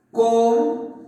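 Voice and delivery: "Cómpramelo" split as cóm, pra, me, lo with long gaps; syllable by syllable. Shown as a demonstration. Teacher dividing "Cómpramelo" for the class, syllable by syllable. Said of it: "mira, así sería".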